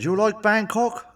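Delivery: a put-on voice for the lady from work; mock lady's question.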